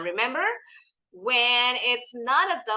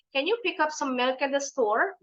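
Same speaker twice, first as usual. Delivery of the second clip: quicker linked question, "milk at" run together; sped-up reading; 3 semitones higher than usual. Shown as a demonstration. Teacher shows the final practice step, faster and fluent. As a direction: say it at a brisker pace, words still joined. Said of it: "Nanti dipercepat lagi".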